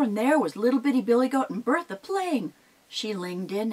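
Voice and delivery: ordinary delivery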